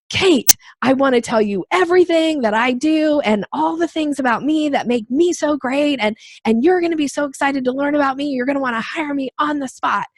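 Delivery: hammed-up word-vomit networker; pushy self-promoter. Networker cornering Kate at an event, mock overeager. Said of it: "being like".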